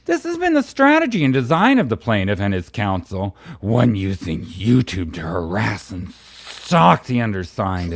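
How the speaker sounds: campy dramatic reading, key words stretched; Bubbles. Pretend. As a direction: legal text read as a hammed-up character, dropping into coy asides. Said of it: "read this in your Bubbles voice".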